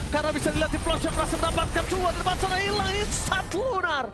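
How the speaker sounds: rising, hyped call of the kill; excited play-by-play. Real, not acted. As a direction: build up the call as it happens. Caster calls a sudden kill. (komentator yang makin bersemangat)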